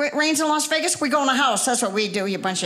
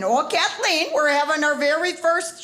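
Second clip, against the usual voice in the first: a light imitation of the cousin's Wisconsin accent; 3 semitones higher than usual. Reading out her cousin's email, in a lightly imitated Wisconsin accent. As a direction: read the email in a hint of Wisconsin. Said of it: "she typed the accent in the email".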